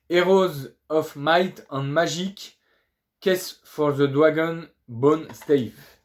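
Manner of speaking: slow, careful English title in a French accent. Real, not acted. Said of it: "désolé pour mon anglais". (titre anglais lu lentement avec l'accent français)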